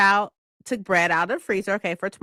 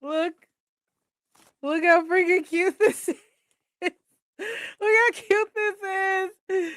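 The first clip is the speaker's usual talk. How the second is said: excited gushing; 10 semitones higher than usual. Real, not acted. Showing gift, gushing high.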